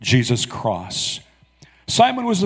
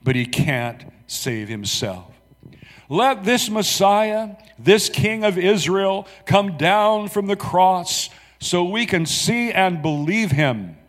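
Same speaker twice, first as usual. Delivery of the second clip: scoffing taunt; 6 semitones higher, slower than usual. Acted. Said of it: "they scoffed".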